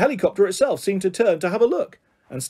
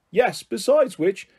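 raised, higher-pitched protest; shouting; 6 semitones higher than usual. A narrator's reading. PC Middleton warns DCI Bryant about getting into trouble, shouting. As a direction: call out the warning, high and urgent. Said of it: "shouted P C Middleton".

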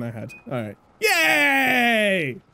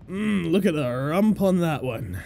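creepy leer; 9 semitones lower, 4 dB quieter, slower than usual. Pretend. Ogling target creepily.

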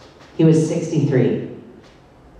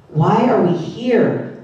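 shouted; 6 semitones higher, much slower than usual. Retold or imitated. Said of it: "Oren shouted".

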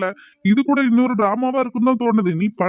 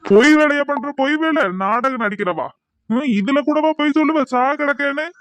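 irritated, slightly raised scolding; angry scolding; 2 semitones higher than usual. Acted. Husband accuses wife of lying, angry scolding. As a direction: cut them off and berate them.

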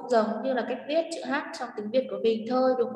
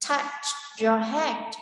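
slow; much slower than usual. Shown as a demonstration. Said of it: "echoes the recording".

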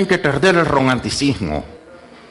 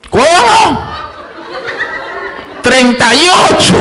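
mock deaf old man; 10 semitones higher, 3 dB louder, slower than usual. Mocking old man's reply again.

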